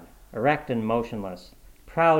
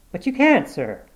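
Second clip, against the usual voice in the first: sergeant pleading, much higher and louder; anxious sergeant; 9 semitones higher, 6 dB louder than usual. A narrator's reading. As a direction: protest in alarm to the captain. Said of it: "said the sergeant anxiously".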